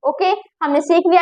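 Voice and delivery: ordinary talk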